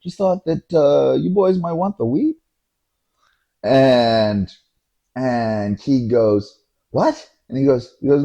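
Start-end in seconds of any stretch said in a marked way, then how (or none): 0.0-2.4 high, drawn-out soothing voice; placating driver. Retold or imitated. Cab driver calms the yelling passenger, high and placating. 6.9-7.3 high, sharp-rising disbelief; incredulous. Retold or imitated. Friend answers the driver's weed offer, incredulous.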